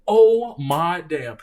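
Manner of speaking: loud, high, slow stunned outburst; retold shock at being hit; shocked disbelief. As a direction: replay the moment the punch landed. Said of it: "I'm like".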